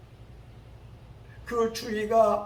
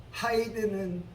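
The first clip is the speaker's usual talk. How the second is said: ordinary talk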